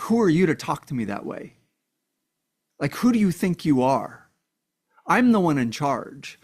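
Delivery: mild, insistent imitation of an angry man; retold anger. Controlling man telling off his partner for questioning him, mildly angry. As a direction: act out his indignation, stressing each claim of authority. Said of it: "he instantly becomes really, really angry".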